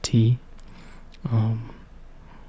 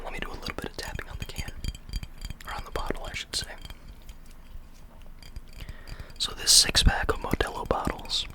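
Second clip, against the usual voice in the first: soft ASMR whisper; 9 dB quieter than usual. Real, not acted. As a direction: whisper close to the mic. Whispers throughout.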